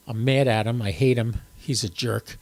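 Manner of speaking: low, deadpan mock anger; mock grudge. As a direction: pretend to hate him, deadpan. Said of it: "No, I'm only kidding".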